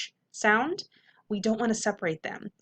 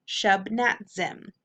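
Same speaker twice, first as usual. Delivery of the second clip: shub, nat, zim spoken unhurriedly; slow syllables; much slower than usual. Shown as a demonstration. Teacher showing tongue-tied students, slow and careful. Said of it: "So say it slowly".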